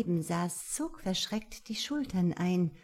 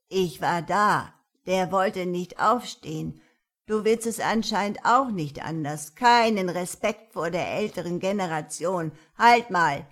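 stern granny, loud at the end; scolding old woman; 6 dB louder than usual. Acted. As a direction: lecture him, then order. Old woman lectures, commands.

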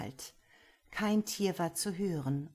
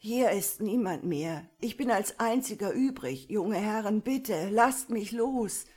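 higher, louder, frightened begging that slows at the end; pleading old man; 3 semitones higher, 6 dB louder than usual. A narrator's reading. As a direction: plead for release, scared. Verängstigter Alter fleht. (ein verängstigter Alter fleht laut um Gnade)

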